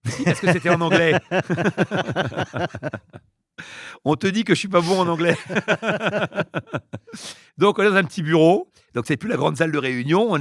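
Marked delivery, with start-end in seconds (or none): 1.2-3.2 a short, high, genuine laugh; real laugh. Real, not acted. Laughs at his own bad English. 5.4-7.3 a short, high, genuine laugh; real laugh. Real, not acted. Laughs again about his English.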